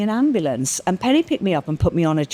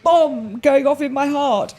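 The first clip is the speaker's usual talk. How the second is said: higher panicked retelling, slowing at the end; retold panic; 7 semitones higher than usual. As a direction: relive the panic in a raised voice. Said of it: "and I go".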